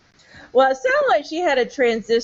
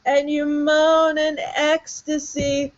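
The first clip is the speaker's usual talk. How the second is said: sexy voice; 4 semitones higher than usual. Pretend. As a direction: overdo a romance novel read. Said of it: "sexy voice".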